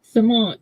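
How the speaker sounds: cement tried as suh-MAH, ending not quite there; attempted imitation. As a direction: have a go at the other cement, short first syllable. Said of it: "what did you say?".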